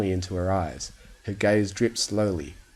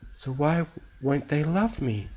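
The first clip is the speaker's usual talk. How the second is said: sobbing; 6 semitones higher than usual. Acted. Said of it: "bowed her head to sob brokenly".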